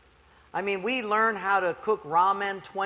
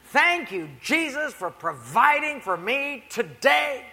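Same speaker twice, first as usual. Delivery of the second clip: higher, slow thankful prayer; grateful old lady; 5 semitones higher, 4 dB louder, slower than usual. Retold or imitated. Poor lady thanking Jesus on her porch, slow and high. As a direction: savour each word of thanks. Same prayer next morning.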